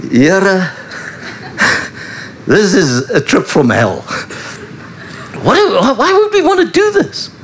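laughing, then squeaking way up in mock disbelief; laughing disciple. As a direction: play a disciple half-laughing at the crazy trip.

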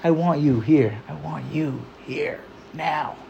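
slow, fading reassurance; calm divine assurance. Retold or imitated. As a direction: reassure gently, as if Hashem speaks. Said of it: "And he decided".

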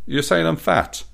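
high, offended question; indignant. Acted. Doris hears Michael call her big, indignant high retort. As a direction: sound insulted and defensive. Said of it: "Doris indignantly".

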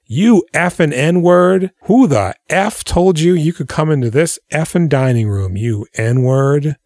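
a spoiled boy raging at the maid, hammed-up; mock hateful tirade. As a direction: spit it out like a bigoted brat. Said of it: "turns full Tucker Carlson on her".

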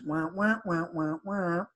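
muffled, wordless wah-wah noises; imitated garbled talk. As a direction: imitate faceless speech as soft repeated wahs. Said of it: "when he talks, all I can hear is".

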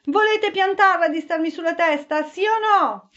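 muffled, choked complaint from below; a hint of a smothered grumble; strangled voice. A narrator's reading. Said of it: "la voce soffocata".

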